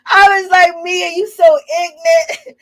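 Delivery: high-pitched laughter cracking through the words; can barely get it out for laughing; laughing hard. Real, not acted. Laughing while recapping the reality show fight to her viewers.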